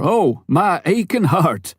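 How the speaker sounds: lightly voiced American doctor's mock lament; mock heartfelt exclamation. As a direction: clap a hand to the chest and ham it. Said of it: "punctuated with exclamations like".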